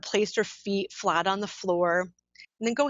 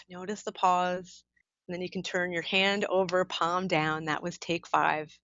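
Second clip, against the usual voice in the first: guided breathing meditation. Acted. Ends the counted breathing meditation.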